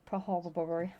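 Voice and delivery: hiccuping mid-word. Real, not acted. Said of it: "I hiccuped".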